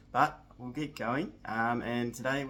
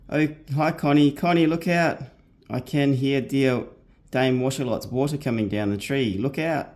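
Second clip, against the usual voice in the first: higher warning call up the tree; 4 semitones higher, 10 dB louder than usual. Acted. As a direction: Jo warning Connie of the falling water. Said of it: "yelled loudly to Connie".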